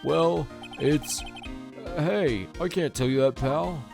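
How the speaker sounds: Detective Gumshoe voice. Acted. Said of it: "my Detective Gumshoe voice".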